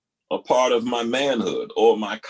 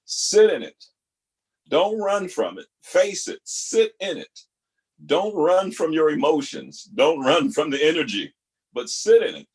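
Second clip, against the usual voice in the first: preaching; 2 semitones higher than usual. Real, not acted. Host preaching advice with force.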